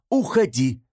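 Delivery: bolder call through the door; emboldened shout. Acted. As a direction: shout it, getting braver. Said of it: "осмелев, крикнула Мила".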